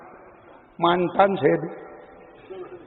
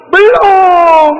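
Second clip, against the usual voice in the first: high, loud, falling "Belum"; a preacher answering his own question with a loud, high "Belum"; emphatic no; 8 semitones higher, 6 dB louder than usual. Acted.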